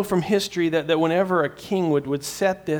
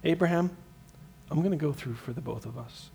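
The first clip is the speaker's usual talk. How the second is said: gentle promise; 6 dB quieter than usual. Retold or imitated. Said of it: "here's what God is saying".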